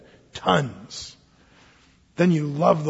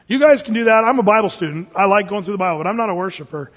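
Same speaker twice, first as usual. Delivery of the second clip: louder, smug churchgoer brushing off worship; smug dismissal; 2 semitones higher, 5 dB louder, faster than usual. Retold or imitated. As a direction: brush it off like you are above it. Mocking a self-satisfied churchgoer.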